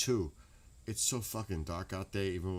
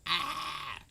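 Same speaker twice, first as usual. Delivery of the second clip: mock scream; 9 semitones higher, 4 dB louder than usual. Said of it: "All yelling and screaming".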